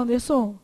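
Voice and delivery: Anderson stressed as ander-SON. Shown as a demonstration. Teacher challenges the class with the wrong stress, Anderson ending on stressed SON. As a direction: land on the last syllable of Anderson. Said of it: "Se a sílaba tônica fosse o som".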